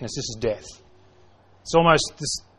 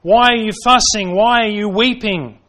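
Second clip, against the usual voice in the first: rising rebuke; 4 semitones higher, 4 dB louder than usual. Acted. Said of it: "Jesus comes along and says".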